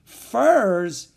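loud, high, drawn-out cry; incredulous high shout; astonished cry. A narrator's reading. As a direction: cry out in disbelief. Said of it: "he cried out".

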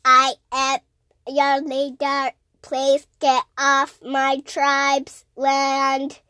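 slow, low robot voice. Pretend. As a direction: speak like a stiff slow robot. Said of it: "Can you do a robot voice?".

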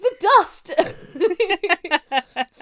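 a fussy little man bustling someone away from the door; hammed-up, fretful Doctor shooing Hobson out, pitched high. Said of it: "Fussy little man".

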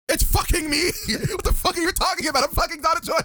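fed-up, insisting on who she is; mock exasperated Donna. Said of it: "Donna's like".

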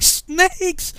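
loud, high cry of disbelief; bewildered yelp. Retold or imitated. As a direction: squeal it back in alarmed confusion. Bewildered recruit echoes the accusation.

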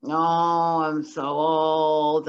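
whiny slow complaining groan; kvetching. Retold or imitated. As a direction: moan it out, drawn out and irritable. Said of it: "an irritable complaining".

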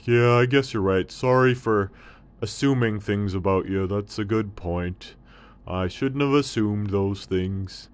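a thirsty camel perking up; hint of a thirsty camel.

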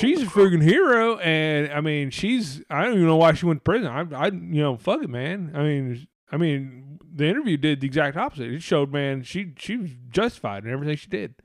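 mild put-on drawling accent for the right-wing guy. A right-wing bro defending her, in a light put-on drawl accent. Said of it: "why I have this accent right now".

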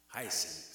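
low-pitched teaching demo of "Hyacinth"; demonstrated pronunciation. Shown as a demonstration. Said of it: "Say it with me".

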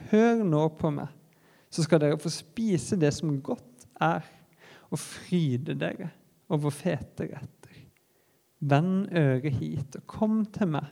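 ordinary talk

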